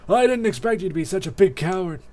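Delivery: loud, high villain sneer; taunting bully. Acted. Bully leaving with his sidekick, loud contemptuous jeer. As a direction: throw the insult out with swagger. Same bully character insults the coward.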